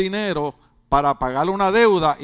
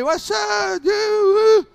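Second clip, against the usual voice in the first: mock teen slang greeting; 12 semitones higher, 4 dB louder, much slower than usual. Preacher imitating teenage son.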